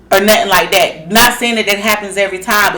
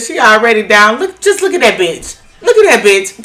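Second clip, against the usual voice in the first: mock callous; 3 dB louder than usual. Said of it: "you didn't sound empathetic at all".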